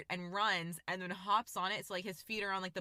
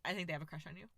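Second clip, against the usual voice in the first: softer imitation of a dead-serious mom; 3 semitones lower, 5 dB quieter, much faster than usual. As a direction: break the news earnestly and quietly. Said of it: "she was just so serious".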